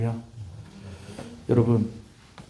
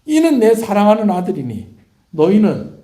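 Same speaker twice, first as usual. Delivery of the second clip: loud, raised proclamation from heaven; voice from the clouds; 8 semitones higher, 8 dB louder than usual. Acted. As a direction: proclaim it as God to the disciples. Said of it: "구름 속에서 어떤 음성이 있습니까".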